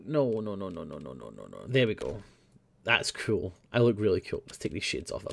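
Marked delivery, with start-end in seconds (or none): 0.1-1.6 fading nos. Real, not acted. Fading denial.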